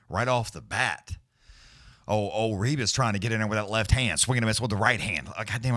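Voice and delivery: quick fight-call patter; live play-by-play. Acted. Streamer calling the fight live for viewers, play-by-play. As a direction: call every punch as it lands.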